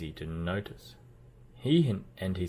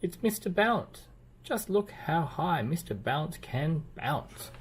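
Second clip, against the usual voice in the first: high, slower proud reveal; excited announcing; 8 semitones higher than usual. A narrator's reading. Mister Busy pointing out Mister Bounce, high and delighted. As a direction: show off the bouncing friend.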